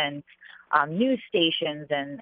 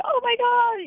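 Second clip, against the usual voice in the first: very high-pitched squeal, not much louder; mock scream of joy, pitched way up; retold excited scream; 3 dB louder, slower than usual. Jockey retelling her joy alone in the car, excited squeal. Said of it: "I was, like, screaming".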